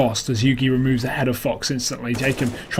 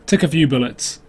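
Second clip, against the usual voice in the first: excited; 5 dB louder, slower than usual. Real, not acted. Caster hyping a kill.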